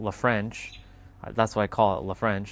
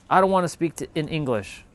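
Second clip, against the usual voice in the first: annoyed caller; 5 semitones higher than usual. Retold or imitated. Imitating annoyed French caller.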